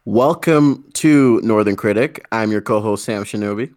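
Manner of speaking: host's scripted opening greeting; show intro. Acted. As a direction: open the show like a host, drawing out the welcome. Opens the show as host.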